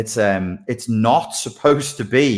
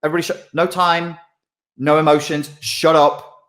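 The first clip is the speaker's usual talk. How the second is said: cartoon lizard brain ordering everyone to shut up; high-pitched rushed reptile commander; bossy Mister Lizard; 7 semitones higher, faster than usual. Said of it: "so Mister Lizard goes".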